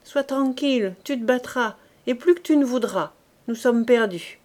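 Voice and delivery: put-on a sutler woman hurrying a boy along; brisk cantinière.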